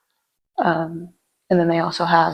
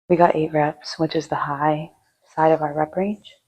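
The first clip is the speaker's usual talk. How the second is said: panting between words after a heavy set; out of breath after lifting. Real, not acted. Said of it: "I really shouldn't talk when I'm out of breath".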